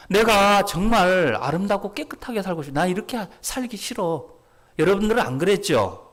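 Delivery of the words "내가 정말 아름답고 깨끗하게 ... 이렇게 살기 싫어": raised, pleading outburst; anguished yearning. Retold or imitated. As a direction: plead earnestly, higher, starting loud then easing. Acting out his anguished yearning.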